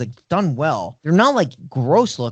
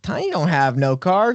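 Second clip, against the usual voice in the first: higher mock hillbilly mama line; lightly voiced raised-pitch backwoods mother; Mama Firefly voice; 5 semitones higher than usual. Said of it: "She does say it exactly like that".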